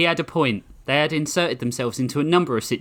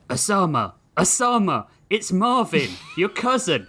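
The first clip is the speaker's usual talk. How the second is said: whispered phone call; 8 semitones higher than usual. Acted. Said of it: "whispered down the phone".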